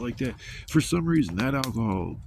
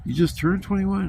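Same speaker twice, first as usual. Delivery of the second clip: much higher disbelieving question; mock surprised bartender; 10 semitones higher, 4 dB louder than usual. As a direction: bartender can't believe it.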